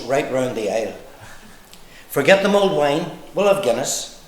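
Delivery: measured, rhythmic verse reading; comic poem recital. Acted. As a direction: recite it in lilting lines with pauses. Reads own poem to audience.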